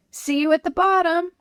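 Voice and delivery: high cheerful call. A narrator's reading. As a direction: call back over shoulder. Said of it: "Chris called".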